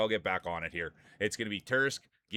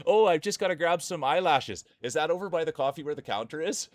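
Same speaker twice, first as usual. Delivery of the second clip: high airy mock girly voice; mimicking Cheesy; 7 semitones higher, 6 dB louder than usual. Imitating Cheesy's replies on stream, high mocking voice. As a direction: parody her innocent questions, higher. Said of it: "everything she'd say".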